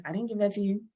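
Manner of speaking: a mild mock protest from relatives; family denying. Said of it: "they're like".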